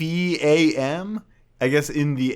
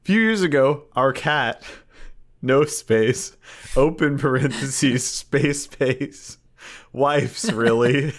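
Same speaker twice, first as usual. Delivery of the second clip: dictating; 3 semitones higher, slower than usual. Pretend. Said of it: "I'm done with punctuation".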